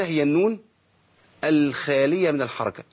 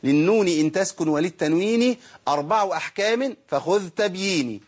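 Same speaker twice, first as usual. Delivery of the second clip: slow, measured recital of the verse; reciting the text; slower than usual. Acted. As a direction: chant the memorized line steadily. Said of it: "ما نقول المتن كده".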